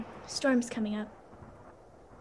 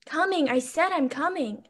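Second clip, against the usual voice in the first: raised voice toward the door, a bit higher; grumbling servant calling to a late knock at the door, raised voice; 4 semitones higher than usual. Acted. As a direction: call out to the knocker, impatient. Servant answering late-night knock.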